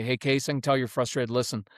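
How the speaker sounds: even, businesslike acknowledgment; matter-of-fact. Shown as a demonstration. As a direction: say it evenly, no cooing. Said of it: "Even matter-of-fact tone".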